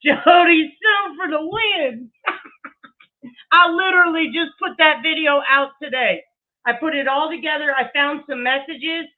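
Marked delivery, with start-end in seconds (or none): 0.0-2.1 slow, louder triumphant call-out; drawn-out happy shout; cheering shout. Real, not acted. Cheering a supporter on stream. 2.2-6.2 talking through a laugh, louder; giggly, pleased delivery. Real, not acted. Laughing after cheering.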